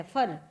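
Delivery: फर with an r for the l of फल; Awadhi pronunciation. Shown as a demonstration. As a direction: say फर low and firmly. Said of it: "फल से फर".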